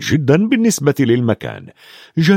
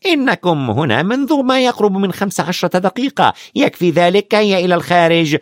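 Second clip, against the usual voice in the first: a touch of stern nurse, higher; firmly; 7 semitones higher than usual. Acted. Madam Pomfrey sends the visitors out, mildly firm. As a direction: shoo them out, lightly firm. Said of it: "وقالت بحزم".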